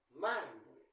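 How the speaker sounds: "Mármol" con la primera sílaba fuerte y el final caído; acento en penúltima sílaba. Shown as a demonstration. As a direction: golpea el comienzo de "Mármol": MÁR-mol. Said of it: "¿Dónde lleva la fuerza de voz?". (primera sílaba de "Mármol" bien marcada)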